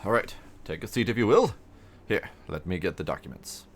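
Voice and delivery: put-on lightly done British accent for the town mayor; a hint of a pompous British official. Mayor greeting the new farmer in a light British accent. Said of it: "I don't know why he's British".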